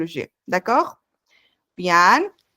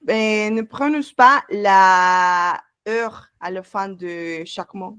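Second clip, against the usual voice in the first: slow explanation; slower than usual. Shown as a demonstration. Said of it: "no se pronuncia la R al final".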